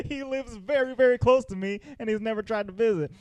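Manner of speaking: put-on high-pitched aggrieved kid voice; mock accusation. Max confronting his mom about his dad, in mock high-pitched accusation.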